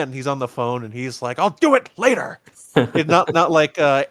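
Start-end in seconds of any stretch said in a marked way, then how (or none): 1.4-2.4 higher-pitched, dismissive mock dad; brushing-off dad. Busy dad on the phone to his kid, dismissive. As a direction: put the kid off like a busy father.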